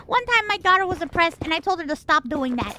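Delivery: sketch-show Latina mom voice. Retold or imitated. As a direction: imitate a proud Latina mom from a comedy skit. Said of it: "Latina mom, like, thing".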